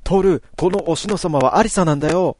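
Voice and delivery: put-on high, loud boyish call to Toru; shouting. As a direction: shout it out with all you have. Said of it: "僕は思いっきり叫んだ". (思いっきり叫ぶ)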